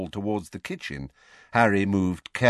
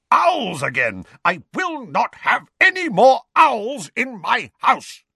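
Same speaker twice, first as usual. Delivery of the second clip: furious rant; 14 semitones higher, 6 dB louder than usual. A narrator's reading. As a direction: pound every word in fury. Vernon's rage continues.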